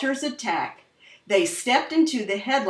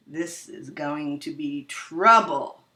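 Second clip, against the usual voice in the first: nervous; 6 semitones lower than usual. Acted. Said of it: "he said to himself nervously".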